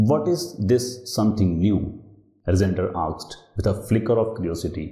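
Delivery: unhurried classroom read-aloud; slow story reading. A narrator's reading. Teacher reading the story to the class, slow and deliberate. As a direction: read each English word slowly and deliberately.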